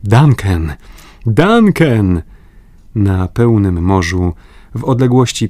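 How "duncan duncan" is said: calling across the sea, rising on the repeat. A narrator's reading. The travellers hail the distant yacht, calling loudly. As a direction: hail the ship from the shore. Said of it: "słysząc wołanie".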